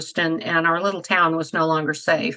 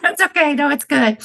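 pained laugh, high and strained; laughing through pain; 10 semitones higher, 4 dB louder than usual. Real, not acted. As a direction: laugh though it hurts. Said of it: "it hurts to laugh".

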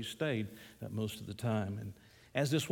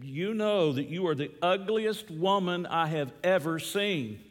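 lightly voiced parrot, higher and emphatic; squawking parrot; 5 semitones higher, 3 dB louder than usual. Parrot repeating its insult to the woman, lightly squawked. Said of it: "that parrot squawked again".

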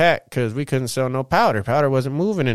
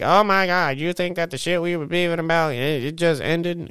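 higher, lightly mimicked girlfriend; mock girlfriend voice; 4 semitones higher than usual. Mimicking his lady's exasperated reaction, mild mock high voice. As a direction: lightly voice her disbelief. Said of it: "And she be like".

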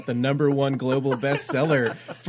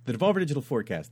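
quick show title; much faster than usual. Shown as a demonstration. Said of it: "Let me try that again".

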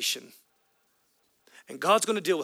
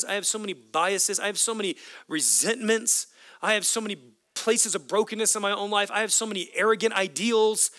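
impassioned prayer; 3 semitones higher than usual. Acted. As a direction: pour out a confession that swells. Voiced prayer building up.

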